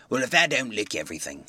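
low, amazed rustic voice; a dumbfounded village smith; amazed blacksmith. Acted. Wadgers amazed.

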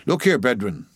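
put-on old cook preaching. Old cook preaching to greedy sharks, dialect sermon voice. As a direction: exhort an unruly flock in dialect.

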